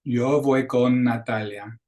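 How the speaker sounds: Yo voy con Natalia with con and Natalia joined by one long n; slow, linked Yo voy con Natalia; smooth linked n in con Natalia; linked consonants. Shown as a demonstration. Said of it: "we can link together".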